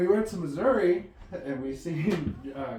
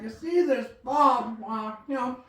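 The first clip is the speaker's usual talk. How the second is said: Mudbone impression; 2 semitones higher than usual. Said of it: "he's like".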